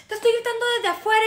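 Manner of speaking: quick, high protest; mock indignant complaint. Man arguing with woman in club, quick mock indignation. Retold quarrel, man's line.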